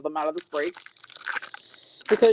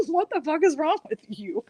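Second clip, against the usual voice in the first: higher, laughing self-scolding; retold helpless laughter; 8 semitones higher than usual. Host retelling scolding themselves, laughing. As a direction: scold yourself through the giggles. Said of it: "could not stop laughing and was like".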